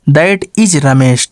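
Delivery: slow, deliberate reading; repeating the answer slowly for the class; slow dictation. Shown as a demonstration. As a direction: say "that is Ramesh" slowly, word by word. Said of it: "teacher dictates the answer sentence".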